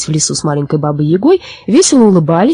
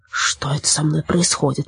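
softer, inward musing; puzzled thought; 7 dB quieter than usual. Acted. Forester bewildered by his own behaviour, puzzled thought. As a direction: wonder softly to yourself. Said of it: "подумал лесничий".

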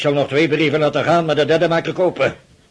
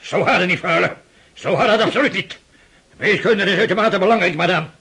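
mocking laugh; 7 semitones higher than usual. Father mocks daughter's stiffness.

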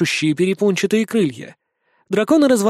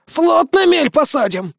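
much higher, slow horrified exclamation; horrified vampire; 9 semitones higher, slower than usual. A narrator's reading. Vampire horrified by the plan, high and slow. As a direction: gasp it out in horror. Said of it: "ужаснулся чудо стратегии упырь".

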